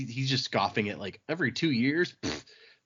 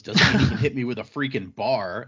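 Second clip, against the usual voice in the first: louder, indignant complaint; indignant protest; 7 dB louder than usual. Retold or imitated. Hit guy protests to the others, indignant and loud. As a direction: push back hard, he's outraged.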